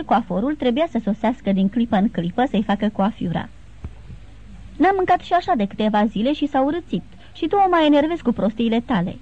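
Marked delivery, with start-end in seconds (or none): 4.8-9.2 higher, half-joking scold; an old princess chiding the groom, mildly voiced. The old princess to Levin, scolding him half in jest. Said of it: "îl certă bătrâna prințesă".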